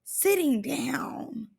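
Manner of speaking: hushed, drawn-out scold; whispered scolding. Retold or imitated. Vlogger whispering that LaRue should sit down, hushed scolding. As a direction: whisper it like a stern aside. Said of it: "I said".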